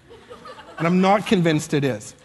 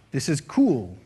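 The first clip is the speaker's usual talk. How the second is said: lower, drawn-out "cool" with little conviction; unsure conformity; 4 semitones lower, slower than usual. Shown as a demonstration. Saying what everybody else is saying, unconvinced and low. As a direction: say it as if only echoing everybody else. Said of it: "I don't know why I said that".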